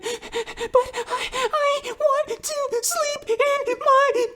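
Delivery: put-on very high, slow whining child about to cry; whiny little girl. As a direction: play the little girl whining for her own bed. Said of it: "And she's like".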